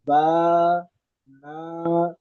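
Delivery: با and نا with long open aa from the empty mouth; open stretched alif. Shown as a demonstration. Teacher modelling the madd, long open با. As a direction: stretch the alif in با, ending clean. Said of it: "منہ کے اندر خالی جگہ سے".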